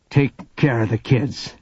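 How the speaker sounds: a hint of a grim parting order; grave father. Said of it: "never heard Papa's voice sound like that".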